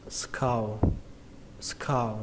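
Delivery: "skull" with an open A gliding to a dark L, "skao"; skull with A vowel. Shown as a demonstration. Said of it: "các bạn không đọc âm á nữa". (đọc "skull" có âm á, như "sờ-cao")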